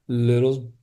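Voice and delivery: slow, laughing through little brat; fond laugh. Real, not acted. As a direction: chuckle as you say little brat, affectionately. Laughing at own inner child.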